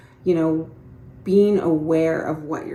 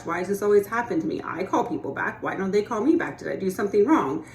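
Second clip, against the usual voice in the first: self-pitying inner voice. Retold or imitated. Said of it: "I'm just giving you an example of that inner speech".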